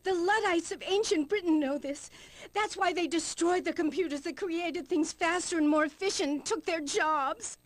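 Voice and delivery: high, fervent denunciation; mildly overwrought doomsaying; zealous rant. Acted. Guest rants against computers.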